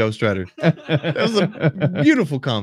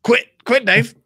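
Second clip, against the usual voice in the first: nervous friend pleading; 9 semitones higher, 5 dB louder, slower than usual. Retold or imitated. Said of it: "Andy's like".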